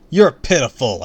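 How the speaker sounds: loud high taunt; cried out. A narrator's reading. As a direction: cry out the insult. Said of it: "I cried".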